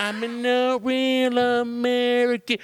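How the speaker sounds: high, slow wrestler growl, stretched out; pumped-up pro wrestler voice, drawn out; Hulk Hogan impression. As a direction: ham it up like a wrestling promo. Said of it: "Hulkamania in me".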